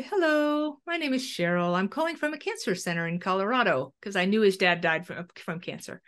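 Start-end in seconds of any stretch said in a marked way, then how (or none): 0.0-3.9 a lightly put-on professional caller, starting high on hello; least crazy researcher voice. Calling the son pretending to be a cancer researcher, light professional voice. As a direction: sound sane and official, barely disguised. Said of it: "put on my least crazy oncologist researcher voice".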